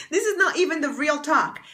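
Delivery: amused nervous laugh. Real, not acted. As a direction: let the laugh spill through. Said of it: "It's so funny".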